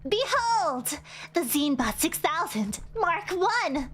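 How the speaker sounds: sweetly menacing boss voice; yandere voice. Acted. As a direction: purr it like a sweet, dangerous boss. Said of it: "I'm giving her a yandere sort of voice".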